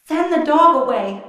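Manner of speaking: high, loud command; urgent call. A narrator's reading. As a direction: cry out for help. Fiona urgently calling dragon.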